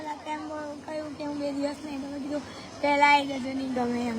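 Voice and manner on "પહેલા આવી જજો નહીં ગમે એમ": retold plea. Child retells pleading to Bapu.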